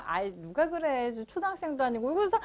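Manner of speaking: lightly voiced pupil brushing off the warning; imitated protesting student. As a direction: play a student insisting they know better. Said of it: "라고 얘기해놓고서는".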